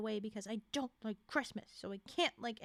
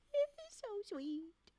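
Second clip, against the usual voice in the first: much higher, slow, teary-sounding gush; high slow adoring coo; 7 semitones higher, much slower than usual. Real, not acted. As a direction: melt over how sweet he is. Gushing over Rick's sweetness.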